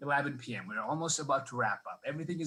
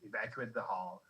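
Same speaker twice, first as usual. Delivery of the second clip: hushed manager; 4 semitones lower, 7 dB quieter than usual. Retold or imitated. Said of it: "he's like".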